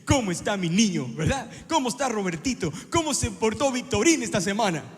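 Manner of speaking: loud cooing to a puppy; voz de consentir al perrito; baby talk to a pet. Pretend. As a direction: coo at the dog like a baby. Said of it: "y no nada más de".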